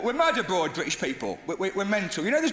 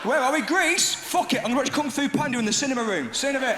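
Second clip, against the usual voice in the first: higher, offhand British tourist act; breezy cruise passenger; 6 semitones higher than usual. Acted. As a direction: toss it off higher, not caring. Cruise passenger shrugging off Greece.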